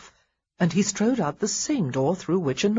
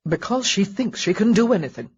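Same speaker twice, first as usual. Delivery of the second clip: desperately; 3 semitones higher, 4 dB louder than usual. Acted. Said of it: "Marcus said desperately".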